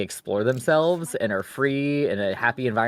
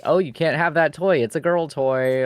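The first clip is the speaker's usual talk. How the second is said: higher, louder start as a forbidding mother; mock scolding mom; 5 semitones higher, 4 dB louder than usual. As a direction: imitate a mom laying down the rule. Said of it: "I see a mom being like".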